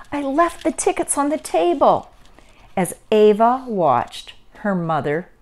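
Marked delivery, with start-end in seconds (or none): 0.1-2.1 high-pitched storybook lament; dismayed. A narrator's reading. Mother confesses forgotten tickets to Ava, high dismayed cry. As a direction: realize it in mounting dismay, dropping at the end.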